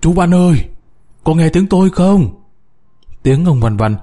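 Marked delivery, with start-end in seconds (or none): 0.0-2.4 higher-pitched call up the pipe; shouting. A narrator's reading. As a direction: shout to be heard far above. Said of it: "ông gào".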